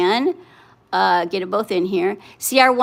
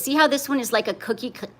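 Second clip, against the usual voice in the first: hiccup; 4 dB quieter, faster than usual. Real, not acted. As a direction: cut off by a hiccup. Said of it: "excuse me, hiccup".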